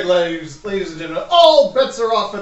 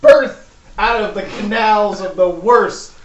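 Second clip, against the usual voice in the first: ring announcer; 3 dB louder than usual. Acted. DM announcing fighter to crowd.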